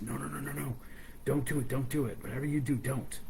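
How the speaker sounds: rapid, insistent string of no's; urgent warning. Acted. Mouse stops girl cooking the meat, urgent. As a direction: urge them to stop, quickly.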